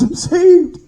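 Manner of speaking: high-pitched shout of relief, acted out; imitated joyful cry. Dying man telling the preacher he is saved, imitated joyful cry. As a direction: cry it out like an overjoyed convert. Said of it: "He's crying out with tears".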